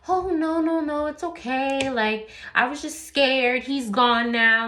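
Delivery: high, quick no-no-it's-okay, slowing at the end; nervous brush-off. Retold or imitated. Wife to godmom, brushing off calls for police. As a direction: wave away the worry, a bit shaky and high.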